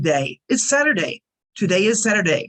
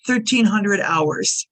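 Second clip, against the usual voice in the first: slow model phrase; slower than usual. Shown as a demonstration. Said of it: "you get at one o'clock in the afternoon".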